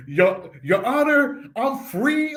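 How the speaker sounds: slow, drawn-out imitation of a bad Puerto Rican accent; mock the actor's Puerto Rican accent; lightly imitated Puerto Rican accent. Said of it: "even his accent".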